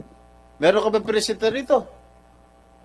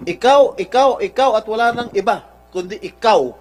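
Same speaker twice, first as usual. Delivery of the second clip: loud, accusing, hammering each ikaw; real anger at the witness; raised angry voice; 6 dB louder than usual. Real, not acted. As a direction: jab the word at him, louder each time. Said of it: "raising my voice".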